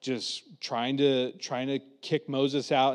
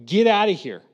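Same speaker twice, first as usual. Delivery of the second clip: fed-up shouting; 4 semitones higher, 6 dB louder than usual. Retold or imitated. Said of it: "the people in Egypt were like".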